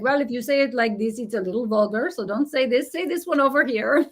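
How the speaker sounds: lightly imitated French accent. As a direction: play the French coach correcting, in a French accent. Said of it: "And the French accent, he was like".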